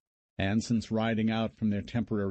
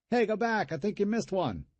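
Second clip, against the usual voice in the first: mocking glee; 11 semitones higher than usual. A narrator's reading. Brother's gleeful one-liners over corpses.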